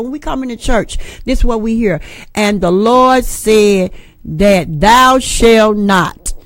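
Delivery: drawn-out pulpit voice, thou shalt not stretched very slow; mock solemn sermon, very slow; slow church preacher. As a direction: preach it slowly like an old-time pastor. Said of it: "this is exactly what he explained to me".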